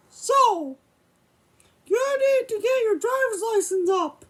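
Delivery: a hint of a cartoon mouse playing a stern father; Mickey voice. Puppet dad questions son about money, lightly voiced Mickey. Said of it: "I gotta use my Mickey voice".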